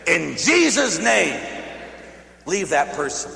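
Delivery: slow, loud command in Jesus' name; first stern command; commanding exorcism. Retold or imitated. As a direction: order the devil out.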